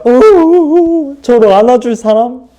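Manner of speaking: high, loud pretend wail; high-pitched fake sobbing call; mock crying. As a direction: bawl out a plea for a hug, hammed up. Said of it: "이렇게 울었으면".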